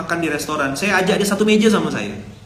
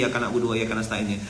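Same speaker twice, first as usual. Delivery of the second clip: softer, lower, half-hearted repetition; insincere KW version; 5 semitones lower, 6 dB quieter, faster than usual. Shown as a demonstration. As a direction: mumble it without meaning it. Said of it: "ndak ori". (ucapan setengah hati, lebih pelan)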